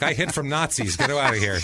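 loud, high Italian grandmother; Italian accent. Retold or imitated. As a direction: yell it like an Italian nonna. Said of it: "in her Italian accent".

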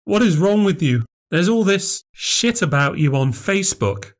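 lightly voiced sister, exasperated; upset sister. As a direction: demand an answer from your sister. Claire confronts about Facebook.

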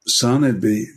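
lightly put-on American preacher accent. Evangelist answering a man on crutches, light American accent. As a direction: attempt a mild American accent. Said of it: "this is my American accent".

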